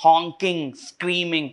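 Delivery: "honking, स्क्रीमिंग" with hard K's; hard K sound. Shown as a demonstration. Teacher isolating hard sounds, "honking, स्क्रीमिंग" with hard K's. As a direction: pick out the K in "honking, स्क्रीमिंग", word by word. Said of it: "तो एस के sound है hard".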